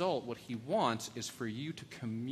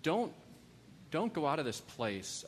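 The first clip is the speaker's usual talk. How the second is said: urgent plea; 3 semitones higher than usual. Real, not acted. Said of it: "let me plead with you".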